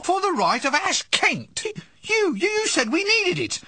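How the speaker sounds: wizard's assistant wailing he was tricked; whiny near-tears. Acted. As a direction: plead on the edge of tears. Upset after errand mocked.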